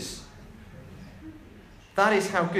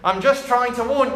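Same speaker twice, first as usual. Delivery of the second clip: lightly voiced parrot, higher pitched; 4 semitones higher, 4 dB louder than usual. Parrot explaining itself to the burglar, in a makeshift parrot voice. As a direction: attempt a squawky parrot. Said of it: "that's my parrot voice".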